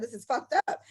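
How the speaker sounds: ordinary talk, nothing marked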